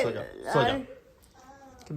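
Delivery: slow, soft, laughing hush; soft lullaby. Real, not acted. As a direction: sing him to sleep slowly. Lulling dog to sleep. (कुत्ते को सुलाते हुए धीमी, धीरे, हँसती लोरी जैसी आवाज़)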